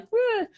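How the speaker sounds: high little "eh" of dismay; mock dismayed noise. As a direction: squeak out a comic sour noise. Mimics how the plan turned out.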